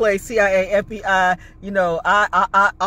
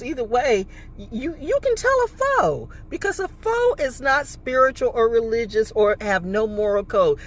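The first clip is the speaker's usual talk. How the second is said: heated rant; 4 semitones higher than usual. Real, not acted.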